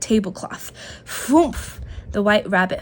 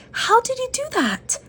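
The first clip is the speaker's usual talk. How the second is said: much higher amazed question; gasping in amazement; 13 semitones higher than usual. A narrator's reading. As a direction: marvel at the trick. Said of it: "he gasped".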